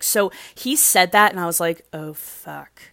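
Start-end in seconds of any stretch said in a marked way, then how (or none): 1.9-2.8 low, hushed sinking swear; retold dread. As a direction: let it sink out softly, under your breath. Her retold sinking reaction.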